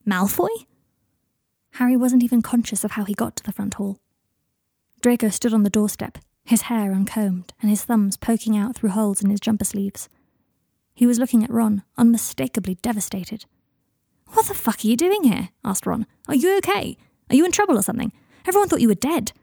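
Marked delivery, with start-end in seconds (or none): 0.1-0.7 mildly startled rising question; surprised exclamation. A narrator's reading. Ron finding Malfoy at the door, mildly surprised. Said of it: "and Ron exclaim". 14.3-15.5 higher, taken-aback question; astonished. Acted. Ron to unexpected visitor, astonished. Startled by unexpected man at door. 16.3-19.3 high-pitched, urgent questioning; alarmed astonishment. Acted. Ron to man thought dead, alarmed amazement.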